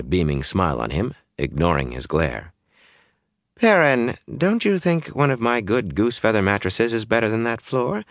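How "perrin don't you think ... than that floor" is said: higher, sing-song motherly cajoling; coaxing. A narrator's reading. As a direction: coax him as if a little boy. Coaxing him after promising to show.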